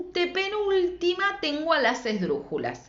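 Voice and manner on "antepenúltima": antepenúltima with a long, stretched opening "an"; "an" held, then the rest of antepenúltima follows; stressed syllable drawn out. Shown as a demonstration. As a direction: linger on the AN of antepenúltima. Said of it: "la que digo con más fuerza".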